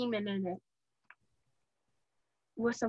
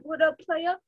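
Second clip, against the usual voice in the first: lightly voiced hip hop greeting; a hint of a hip hop persona; 3 semitones higher than usual. Shown as a demonstration. Offering the guest a choice of voices, light hip hop voice. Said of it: "I can do this hip hop voice".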